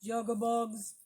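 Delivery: light croaky bullfrog imitation; bullfrog call. Shown as a demonstration. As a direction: demonstrate the frog call for the kids. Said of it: "Can you try it?".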